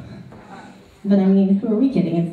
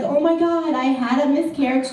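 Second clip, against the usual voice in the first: mock gasp; 5 semitones higher than usual. Mock single girl.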